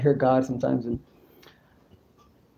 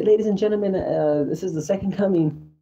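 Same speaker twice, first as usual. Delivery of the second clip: raised-pitch public announcement; announcer; 5 semitones higher than usual. Acted. Man with a microphone addressing a crowd, announcer voice. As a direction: proclaim it as a lightly played announcer. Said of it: "walk around with a microphone and say".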